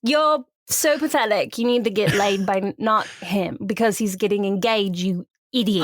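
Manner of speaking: lightly acted scornful friend; smoky friend. Smoking friend tells Iris off over Jasper, mild mock scorn. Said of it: "I'll be the smoky friend".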